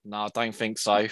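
a hint of a scolded child; told-off child. Retelling being told off by manager, lightly childlike sheepish answer. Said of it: "I was like a proper child".

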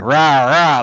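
playful rapped dragon growl, lightly done; a mock dragon's "rah, rah"; dungeon dragon roar. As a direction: toss out a quick dragon roar. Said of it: "like a dungeon dragon".

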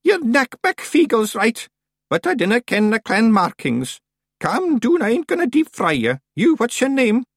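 high, loud voice in broad Scots; old witch, brisk and commanding. A narrator's reading. Miss Treason questions the Feegles about their clan, commanding. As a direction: take charge like a formidable old witch.

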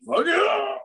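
high-pitched, rising cheer; mock elation. Joking about crashing the car on purpose, high mock cheer. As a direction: whoop it in pretend triumph. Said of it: "just be like".

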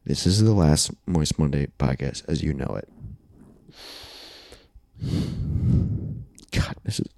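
soft, halting fake-grave announcement; mock solemn. Hosts teasing listeners with bad news, softly and halting. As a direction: act like breaking tragic news.

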